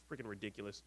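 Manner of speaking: ordinary talk, nothing marked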